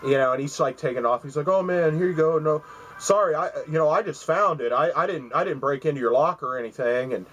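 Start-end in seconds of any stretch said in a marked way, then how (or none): 1.5-7.1 nervous apology. Retold or imitated. Thief apologizes handing jacket back.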